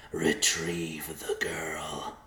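slow, eerie whisper; slow voice inside his head. A narrator's reading. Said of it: "a voice said in the messenger's mind".

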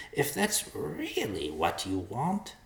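high, slow, reluctant bird voice; resigned vulture. A narrator's reading. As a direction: give in slowly as the vulture. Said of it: "bowed his head and sighed".

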